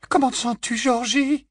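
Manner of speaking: high, motherly murmur; tender murmur. A narrator's reading. Mrs Weasley to her wounded son, tender murmur. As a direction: ask gently in a high voice. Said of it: "murmura Missus Weasley".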